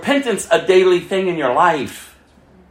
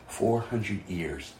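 a slow, breathy whisper of the count; 10 semitones lower, 12 dB quieter, much slower than usual. Acted. Preacher to congregation, repeating the silent years, whispered slowly. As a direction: let it hang in a hush.

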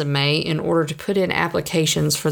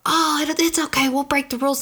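higher, fast, breezy voice of careless friends; carefree rule-breakers; 9 semitones higher, faster than usual. Retold or imitated. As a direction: toss off the rule-breaking casually. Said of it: "because they go".

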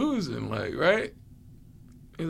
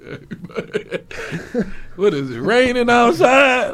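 yawning; 6 semitones higher, 9 dB louder than usual. Real, not acted. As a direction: speak while still yawning. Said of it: "seventeenth time I yawned".

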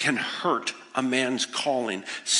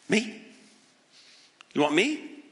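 astonished Peter; 5 semitones higher than usual. Acted. Peter astonished at his calling.

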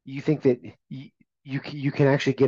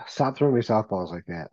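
trying not to laugh. Real, not acted. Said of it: "trying so hard not to laugh right now".

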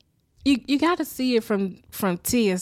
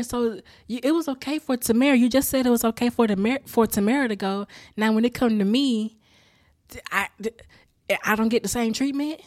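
fast, louder mock indignation; indignant; 2 semitones higher, 4 dB louder than usual. A teen daughter arguing unfair treatment, fast and louder. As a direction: rattle off the unfairness. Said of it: "Tia's like".

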